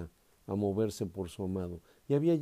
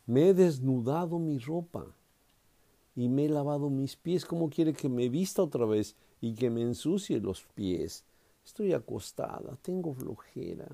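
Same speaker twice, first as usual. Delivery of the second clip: mock lazy excuse, a touch higher; lazy bride; 4 semitones higher than usual. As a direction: play the bride too lazy to get up. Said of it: "Podía contestarle así la mujer". (la esposa perezosa se excusa ante el amado, con desgana fingida)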